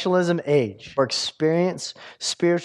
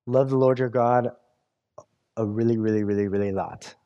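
mock dumbed-down version; 7 semitones lower than usual. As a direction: say it like a lazy, watered-down commandment. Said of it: "Why doesn't Jesus just say".

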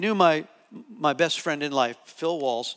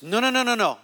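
rapid run of no's, pitched up then falling; retold urgent objection; 4 semitones higher than usual. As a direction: cut in quickly, imitating her alarm. Retells translator cutting in urgently.

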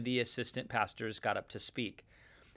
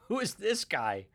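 a breathless laughing whisper, pitched up; whispered scoff; 6 semitones higher than usual. Retold or imitated. Listeners puzzled by Paul's voice, a laughing whisper. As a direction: mutter it like a baffled listener. Crowd reacting to Paul.

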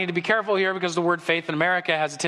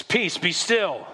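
slow, calm, steady words; calm command; slower than usual. Retold or imitated. Jesus speaks to the wind, slow and calm. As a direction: still the storm gently. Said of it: "He says".

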